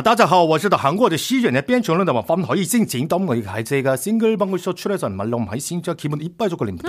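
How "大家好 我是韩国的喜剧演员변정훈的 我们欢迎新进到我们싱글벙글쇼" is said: slow mock Cantonese greeting; fake Cantonese. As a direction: fake Chinese gibberish, slowly. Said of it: "인사를 광둥어 개인기로 한번".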